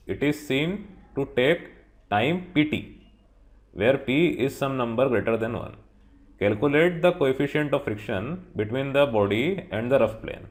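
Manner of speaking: reading the problem aloud word by word; teacher reads the textbook question to students, slow and deliberate. Acted.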